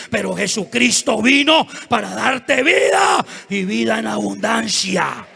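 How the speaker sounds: loud, rousing proclamation; preaching climax. Real, not acted. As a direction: build to a shout, then ease down slightly. (proclamación a voz en cuello)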